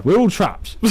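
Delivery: high, loud, hammed-up doom; melodramatic declaration. Shown as a demonstration. Streamer mocking his own rant, hammed-up doom. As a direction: declare it like a movie trailer line. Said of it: "that was me just there".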